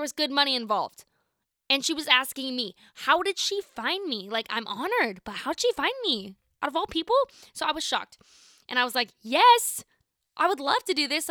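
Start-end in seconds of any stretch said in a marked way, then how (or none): 2.9-7.2 amazed disbelief. Retold or imitated. Retelling her amazed reaction. 9.2-11.3 high, loud, thrilled yes; eager yes. Retold or imitated. Accepting the offer eagerly.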